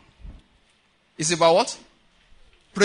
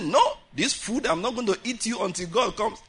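mock stubbornness; 3 semitones higher than usual. Preacher mimicking someone fasting too long, mock stubbornness. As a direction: refuse the food with put-on resolve.

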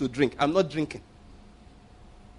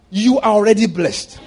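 emphatic declaration; 4 semitones higher, 7 dB louder than usual. Real, not acted.

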